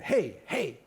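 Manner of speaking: loud, high repeated call. Retold or imitated. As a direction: hail someone from the pavement. Guy yelling outside Canter's.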